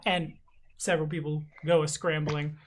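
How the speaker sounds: ordinary talk, nothing marked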